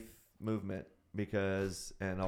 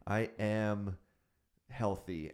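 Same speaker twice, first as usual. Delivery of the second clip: slow affirmations; slower than usual. Retold or imitated. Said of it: "he tells you, say".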